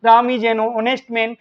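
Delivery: each English word spaced out very slowly; deliberate classroom dictation pace. Shown as a demonstration. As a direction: read it out slowly for students to write down. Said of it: "teacher dictating answer sentence".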